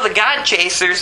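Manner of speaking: ordinary talk, nothing marked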